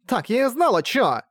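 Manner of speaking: high teasing mimicry of her friend; mimicking Linfa. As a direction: echo her words back mockingly. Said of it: "при этом подражая ей".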